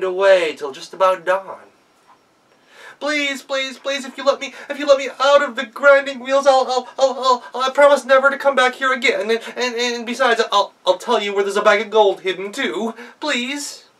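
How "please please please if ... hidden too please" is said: much higher, whiny, desperate pleading; begging goblin. Acted. Trapped goblin begs the girl, high and desperate. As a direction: bargain desperately for release.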